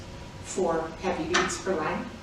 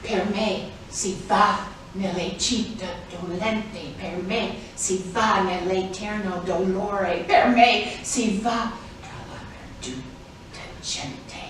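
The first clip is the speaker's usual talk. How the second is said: slow, measured recitation; recited Italian verse. Shown as a demonstration. Reciting Dante's gate inscription aloud, slow and measured. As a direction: chant the meter steadily. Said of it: "join in with me".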